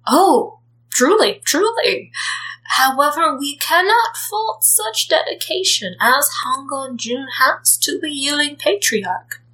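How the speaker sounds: gossiping clan leaders. Acted. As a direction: pretend to mourn while secretly delighted.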